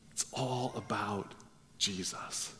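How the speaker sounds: soft, near-whispered reverent line; hushed emphasis. Acted. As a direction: drop right down and breathe it. Hushed climax of Paul's message.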